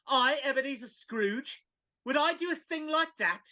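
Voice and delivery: playful fake outrage; mock innocence. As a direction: act shocked at the idea. Scrooge feigning innocence.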